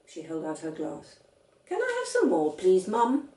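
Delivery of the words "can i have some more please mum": put-on high, bright child voice, firm; a small stubborn girl correcting her dad; voiced little girl. A narrator's reading. Little girl contradicting her father, high and firm. Sophie asking mother.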